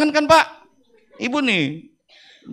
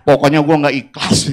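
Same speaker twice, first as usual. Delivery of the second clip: mock grumble. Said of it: "ngedumel dia gini".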